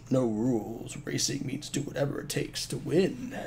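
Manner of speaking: loud hyped promo announcer; punchy game box advert; ad read. Acted. Reads game box blurb.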